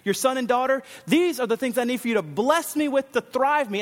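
bold prayer. Retold or imitated. Preacher voicing a believer's prayer, bold and confident. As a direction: ask God boldly, like a child to a loving father. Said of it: "you boldly go to your God and you say".

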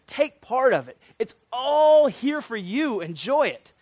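God inviting man to enjoy everything; joyful invitation. Acted. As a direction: offer it all with open arms. God offering creation to man.

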